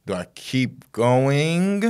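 slow, hesitant question rising in pitch; retold shock. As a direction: slowly wonder it aloud, stunned. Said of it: "in shock".

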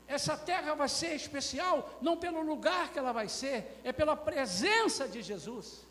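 high, loud sermon proclamation; forceful preaching. Real, not acted. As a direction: proclaim it to the whole church.

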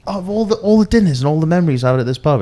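high, loud mock-distraught quote; mock lament. Friend retelling a regular's loss of his pub, mock lament. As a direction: wail lightly over a lost pub, hammed up. Acting out mate mourning bombed pub.

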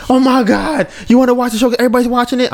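high-pitched mock exasperation; mimicked girlfriend. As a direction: imitate a girlfriend giving you grief.

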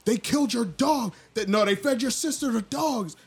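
high, loud mocking taunt; hammed-up villain taunt. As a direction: jeer at him, building to a yell. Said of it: "he was like".

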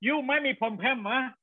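surprised exclamation. Retold or imitated. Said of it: "Nhưng mà thế thì".

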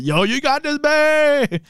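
high, hyped encouragement; pumped-up pep talk. Retold or imitated. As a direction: cheer her on, pumped. Voicing pep talk to Bay.

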